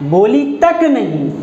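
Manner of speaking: slow, तक weighted and falling; stress on तक. Shown as a demonstration. Teacher repeating for the class, stress on तक. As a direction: slowly press the word तक. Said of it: "यहाँ बल दे रहे हो उस पर".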